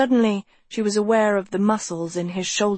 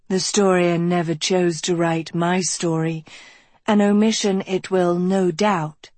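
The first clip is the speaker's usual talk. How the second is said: resounding Dean voice. Acted. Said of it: "her voice resounding through Good Hall".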